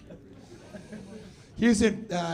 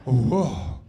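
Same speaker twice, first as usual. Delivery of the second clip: put-on squealing baby talk aunt; 2 semitones higher, 8 dB louder than usual. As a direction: coo at a growing kid. Cooing at city like a child.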